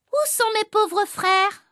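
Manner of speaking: high, slow, hammed-up wail of despair; a schoolboy overacting despair, drawn out and high; a little boy reading his despairing line high and slow for the class; mock despair. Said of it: "tu es désespéré".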